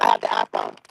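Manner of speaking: muffled, breaking-up phone line. Real, not acted. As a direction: voice coming through a bad connection. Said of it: "Why is it so muffled?".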